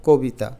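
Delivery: কবিতা said lightly as 'ko-bi-ta'; light natural pronunciation. Shown as a demonstration. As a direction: say কবিতা easily with 'ko'. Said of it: "একটু আলতো করে উচ্চারণ করো".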